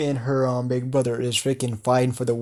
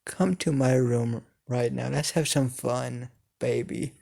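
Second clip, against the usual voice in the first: seductive tone; 6 dB quieter than usual. Acted. Izumi murmuring into Shigaraki's ear, softer and seductive. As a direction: lure him in, close to his ear. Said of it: "in a seductive tone".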